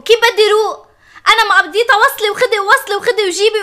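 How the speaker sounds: rising exasperated cry; exasperated outburst. Acted. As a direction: throw the question back at him, fed up. Wife repeats, escalating.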